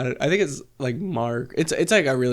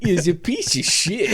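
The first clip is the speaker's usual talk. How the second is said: movie trailer voice; 3 semitones higher than usual. Retold or imitated. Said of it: "like, the movie trailer voice".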